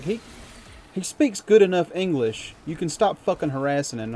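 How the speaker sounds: angry defense. Retold or imitated. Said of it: "I was like".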